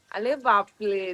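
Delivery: slow, low, drawn-out अरे बापले; mock amazement. Mother praising her baby, slow mock awe. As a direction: stretch it out in playful awe.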